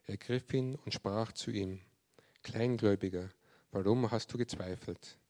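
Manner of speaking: measured, solemn Bible reading; scripture reading. A narrator's reading. Preacher reads Peter on the water to the congregation, measured reading. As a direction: read the verses out with deliberate pauses.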